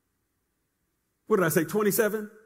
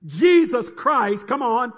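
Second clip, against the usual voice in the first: proclaiming; slower than usual. Acted. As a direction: ring out Jesus Christ slowly. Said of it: "preacher leads congregation declaration".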